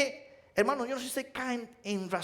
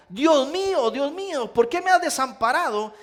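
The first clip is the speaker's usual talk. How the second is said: loud, higher cry of abandonment; anguished cry; 4 semitones higher, 5 dB louder than usual. Retold or imitated. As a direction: cry it out to the Father from the cross. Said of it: "eso que hizo Jesús en la cruz de gritar".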